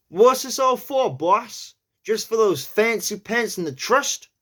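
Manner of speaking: high, breathy New York accent that opens in a whisper. Shown as a demonstration. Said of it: "try it in a New York accent".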